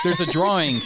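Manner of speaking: THERE'S A DRAWING loud and high; loud, high-pitched clarification; emphatic repeat. Real, not acted. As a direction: raise the voice to spell it out. Repeats after "Say what now.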